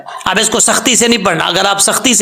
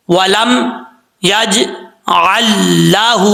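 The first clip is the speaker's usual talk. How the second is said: slow, joined recitation; slow recitation demo; slower than usual. Shown as a demonstration. Teacher showing students how to join the words. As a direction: recite it slowly, joining the laams. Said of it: "کیسے؟".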